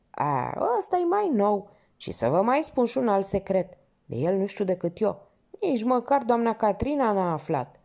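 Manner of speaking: a hint of the nosy old porter spilling gossip; gossipy porter. Porter confiding backstage gossip to the lieutenant, chatty.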